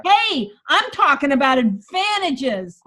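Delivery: firm pushback with attitude; defensive energy. Shown as a demonstration. Coach demos defensive energy, firm. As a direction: insist on the advantages. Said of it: "the energy of going".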